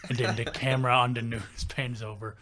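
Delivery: imitated country storyteller; thick country accent. Imitating the coworker setting up his scenario, country accent. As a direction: tell it earnestly in a country accent. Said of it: "he had a real thick country accent".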